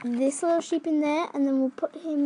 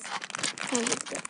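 relieved whisper; 3 semitones lower, 9 dB quieter than usual. Real, not acted. Relieved unvoiced aside.

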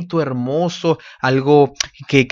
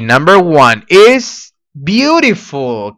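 enthusiastic reveal; 2 semitones higher, 5 dB louder, much slower than usual. Acted. Reveals answer to class.

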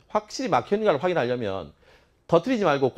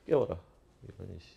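very low, barely audible mutter; muttered grumble; 6 semitones lower, 10 dB quieter than usual. Real, not acted. Teacher grumbling aside about sleeping students, muttered. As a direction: grumble it under your breath.

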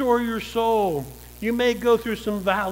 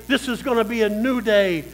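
firm resolve. Pretend. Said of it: "Put your foot down and say".

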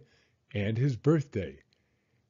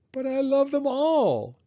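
put-on high, wailing kid protest; cried out; 14 semitones higher, 4 dB louder than usual. A narrator's reading. Son told to give up toys, crying out in protest. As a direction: cry out in a high child's voice. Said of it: "Spencer cried".

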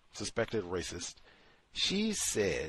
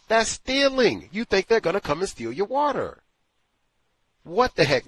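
indignant outburst; 10 semitones higher, 10 dB louder than usual. Real, not acted. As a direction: explode in disbelief at the hypocrisy.

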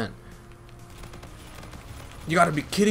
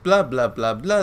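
mocking blah-blah; 3 semitones lower than usual. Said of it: "That's how you sound like".

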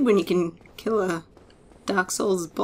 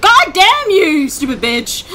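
higher, louder and slow, real rage; drawn-out real frustrated yell; furious curse; 8 semitones higher, 7 dB louder, slower than usual. Real, not acted. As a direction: spit out the curse at the boss. Cursing the jumping enemy.

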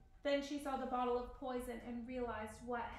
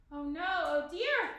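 loud, slow, mildly flustered lament; panted; 4 semitones higher, 7 dB louder than usual. A narrator's reading. Friar sprinting down the street, lightly panted. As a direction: read it as a worried friar's outcry. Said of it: "Friar Lawrence panted to himself".

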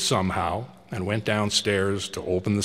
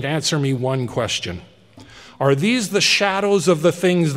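put-on higher, louder anxious old man begging; pleading Scrooge; 5 semitones higher, 6 dB louder than usual. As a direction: plead with the silent spirit for an answer.

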